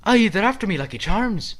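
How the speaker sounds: very high, loud leprechaun squeal. Acted. Spirit does an odd voice instead of Jamaican, high leprechaun squeak. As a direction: squeak it like a cereal-box leprechaun.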